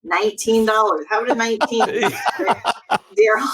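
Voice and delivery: fast auctioneer bid calling. Pretend. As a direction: rattle off bids like an auction. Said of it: "give us thirty seconds of fast Lori auctioneer talk".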